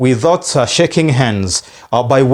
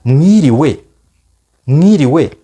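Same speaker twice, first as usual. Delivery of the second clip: greeting demo; 3 dB louder, much slower than usual. Shown as a demonstration. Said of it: "Mu Kinyarwanda tuvuga ngo".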